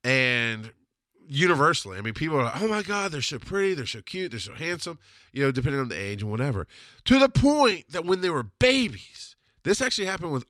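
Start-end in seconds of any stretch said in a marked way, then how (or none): 2.6-5.0 mock gushing over cute kids; gushing admirers. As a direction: imitate cooing admirers, fading softer. People gush over his kids.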